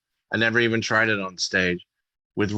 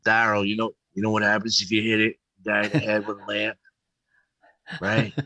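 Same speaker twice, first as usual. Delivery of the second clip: gangster voice; faster than usual. Retold or imitated. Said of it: "he talked like a gangster".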